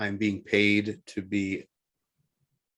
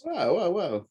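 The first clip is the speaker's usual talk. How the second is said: whoa interjection; 10 semitones higher, slower than usual. Real, not acted. Cutting in to interrupt.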